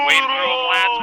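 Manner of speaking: gruff barked parade orders. Acted. Rallying troops in battle.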